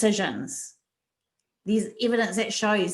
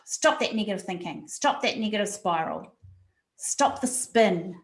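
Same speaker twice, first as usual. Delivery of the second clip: inner stop voice. Retold or imitated. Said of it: "it goes".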